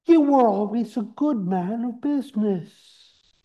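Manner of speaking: Scrooge voice. Acted. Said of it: "Scrooge says".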